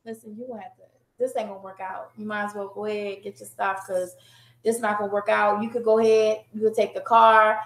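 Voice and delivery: very soft, low and gentle; soft breakup voice. Retold or imitated. Wife sending husband away, hushed and gentle. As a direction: calmly hand him his things. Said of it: "I'm not that woman. I'm that".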